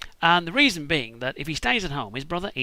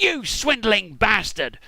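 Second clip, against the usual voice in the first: furious; 5 semitones higher, 3 dB louder, much slower than usual. Acted. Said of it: "absolutely freaking furious".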